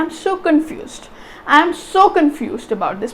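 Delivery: slow, with SO picked out; intonation demo. Shown as a demonstration. Teacher showing nice-sounding English speech, stress on so. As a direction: stress so, keep the rest light. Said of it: "English ਇੱਦਾਂ ਬੋਲਦੇ ਨਾ".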